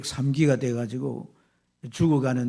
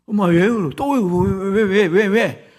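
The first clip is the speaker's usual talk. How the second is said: put-on loud, high child demanding why; imitating an insistent child; pestering child; 7 semitones higher, 9 dB louder, slower than usual. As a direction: fire off the whys like an alarmed kid. Acts out children pestering crying mother.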